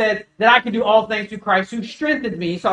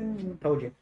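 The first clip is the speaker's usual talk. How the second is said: quiet smug aside; 2 semitones lower, 12 dB quieter than usual. Retold or imitated. Quiet gloat to wife.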